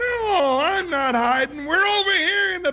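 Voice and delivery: high, shouted denial. Acted. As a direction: call back fast. Calling to grandma.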